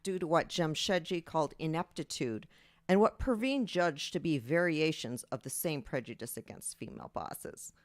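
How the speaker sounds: steady reading of a novel excerpt; story narration. Acted. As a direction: read the passage to the audience. Author reads her excerpt.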